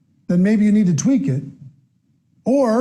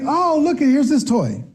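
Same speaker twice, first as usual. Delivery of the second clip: mock-bright, higher voice showing off a toy; excited parent; 6 semitones higher than usual. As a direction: sell the toy like a cheery parent. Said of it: "You're like".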